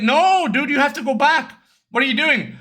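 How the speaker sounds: retold alarmed protest. Retells friend urging him back.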